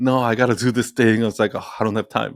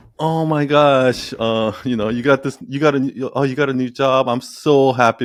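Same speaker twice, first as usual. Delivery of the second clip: mocking, condescending, patronizing tone, much slower; 2 semitones higher than usual. Acting out what a woman says at brunch, in a mock patronizing tone. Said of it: "patronizing way when they do that".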